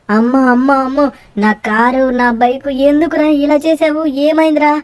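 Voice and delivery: hammed-up wail over the ruined car. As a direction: lament the smashed bike. Wailing over smashed car and bike.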